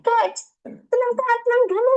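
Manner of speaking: calm her down gently; calming plea. Retold or imitated. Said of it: "saya bilang gitu".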